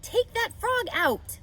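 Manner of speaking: a big sister laying down the law; Fern's slow, high command; ordered. Acted. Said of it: "Fern ordered".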